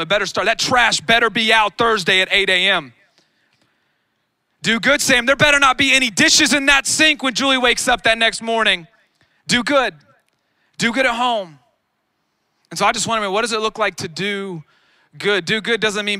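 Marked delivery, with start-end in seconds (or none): 0.0-11.6 rising preaching. Acted. Preacher builds to full force.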